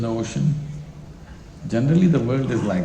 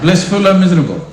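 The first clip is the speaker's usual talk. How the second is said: laughing question; 5 semitones higher, 7 dB louder, faster than usual. Real, not acted.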